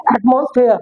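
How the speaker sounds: "एटमॉस्फेयर" with full AT-MOS-FAIR vowels; spelling-based misreading. Shown as a demonstration. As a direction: read "एटमॉस्फेयर" as spelt, ending in -fair. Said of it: "इसे हम कहते हैं". ("एटमॉस्फेयर" लिखे अनुसार पूरा उच्चारण)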